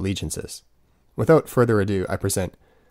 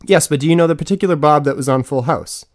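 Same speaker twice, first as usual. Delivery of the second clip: exasperated repeat; 4 semitones higher, 4 dB louder than usual. Acted. Asking the question a second time.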